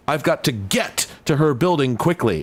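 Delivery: odd words punched like a comic caption; comic book emphasis. Retold or imitated. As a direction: stress the weirdest words in "I've got to get to her building quickly". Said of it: "puts the emphasis on the, the weirdest words".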